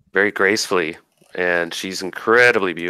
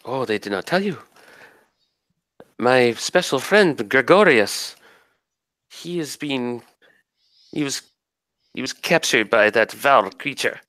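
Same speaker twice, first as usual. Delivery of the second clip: lightly voiced forest spirit; 4 semitones higher than usual. Spirit tells of captured friend.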